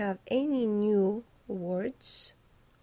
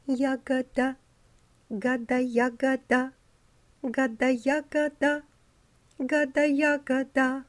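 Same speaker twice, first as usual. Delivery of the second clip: "Ягода, гада" said through the teeth with a small mouth, a bit higher; gossiping through teeth; 4 semitones higher than usual. Shown as a demonstration. Director showing altos how to gossip through the teeth. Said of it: "through your teeth".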